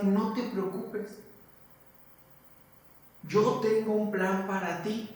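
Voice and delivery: preacher gently voicing God's promise; reassuring God. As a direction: comfort one frightened child. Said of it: "literalmente te está diciendo".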